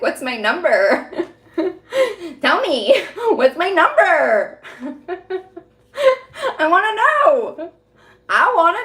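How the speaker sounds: laughing through a teasing demand; laughing taunt. Retold or imitated. Taunting the callers about her number, laughing and high. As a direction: tease them, giggling as you ask.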